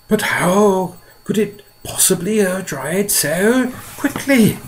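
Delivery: high, slow puzzled question; grasshopper asking. A narrator's reading. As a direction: wonder aloud. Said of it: "he asked".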